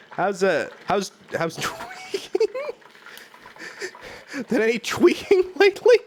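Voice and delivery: high, squeaky burst of real laughter; can't keep straight face. Real, not acted. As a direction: ask it while helplessly cracking up. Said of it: "can't even ask that with a straight face".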